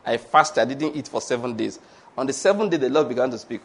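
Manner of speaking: low mock testimony; self-righteous. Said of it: "you know, this self-righteousness".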